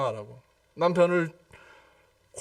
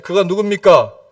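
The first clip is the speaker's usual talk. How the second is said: a louder call-and-response question; 4 dB louder than usual. Shown as a demonstration. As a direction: ask it out loud to the congregation. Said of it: "크게 얘기하세요".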